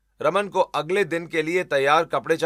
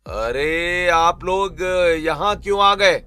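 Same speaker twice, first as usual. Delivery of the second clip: contemptuous scolding, getting louder; rude, irritated outburst; 4 dB louder than usual. Acted. Husband berating his in-laws, rude and angry. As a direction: lash out at unwelcome guests. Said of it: "बदतमीजी शुरू कर देता है".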